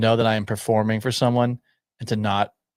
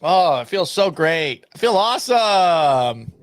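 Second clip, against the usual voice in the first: higher, slow, louder strained voice; straining a sore throat; 6 semitones higher, 4 dB louder, slower than usual. Real, not acted. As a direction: push the voice until it hurts. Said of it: "See, that hurt right there".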